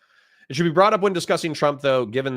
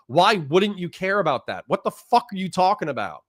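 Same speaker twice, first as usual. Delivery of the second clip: worked-up, higher-pitched incredulous tirade; real mad rant; 4 semitones higher than usual. Real, not acted. Streamer answering a viewer who dismisses Epstein, heated and incredulous. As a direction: argue back in heated disbelief, voice raised high. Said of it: "I'm sorry for getting mad".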